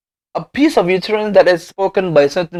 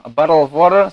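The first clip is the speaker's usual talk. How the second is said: American accent, flapped t in bottle; faster than usual. Shown as a demonstration. Lecturer contrasting with an American accent. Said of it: "and American accent".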